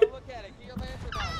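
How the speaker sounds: 1 urgent yell. Real, not acted. Friend yelling instructions in fight.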